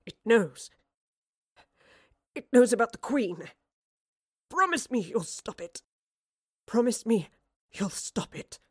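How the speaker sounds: halting, forceful bursts that fade away; dying man's urgent plea. Acted. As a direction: plead with broken pauses, pressing hard on key words. Dying figure's last plea.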